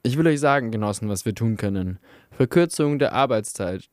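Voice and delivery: lightly voiced bookish agitator; a hint of a zealous pamphlet reader; earnest slogan speech. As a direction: proclaim the slogan to the miners.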